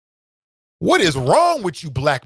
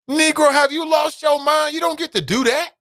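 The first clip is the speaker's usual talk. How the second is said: outraged shout; 12 semitones higher than usual. Real, not acted. Vlogger yelling at Daniel Cameron's Halloween post, outraged. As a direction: bellow it in disbelief.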